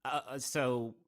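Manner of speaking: talking through a bite of burger; words round a mouthful of burger; mouth full. Acted. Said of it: "got my mouth open with some burger in it".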